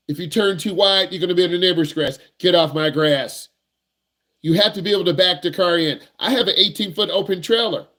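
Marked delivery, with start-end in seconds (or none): 2.4-3.5 slow, mock-stern lawn scold; a hint of a cranky neighbor; grumpy neighbor. Neighbor scolds a teen driver on the lawn, mock grumpy.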